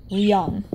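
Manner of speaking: "Ryong" as one quick joined syllable; said all together. Shown as a demonstration. Teacher shows a complicated syllable, "Ryong" said all together. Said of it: "You say it all together".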